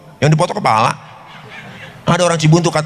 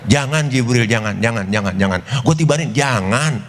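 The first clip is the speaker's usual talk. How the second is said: gentle refusal; 3 semitones lower than usual. Acted. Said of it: "Ini kalau bahasa kita begitu".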